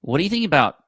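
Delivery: glitchy robotic call audio; choppy, robotic bad connection. Real, not acted. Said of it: "robot voice again".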